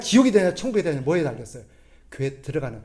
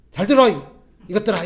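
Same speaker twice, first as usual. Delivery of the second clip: loud, harsh lecturing bark; mock scolding preacher; 7 dB louder than usual. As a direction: scold the congregation from the pulpit. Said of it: "이러면 설교하면". (성도들을 족치는 목사의 호통)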